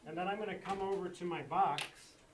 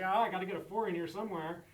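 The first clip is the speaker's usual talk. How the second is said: mistaken student; 2 semitones higher, 6 dB louder, faster than usual. Retold or imitated. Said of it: "so they say".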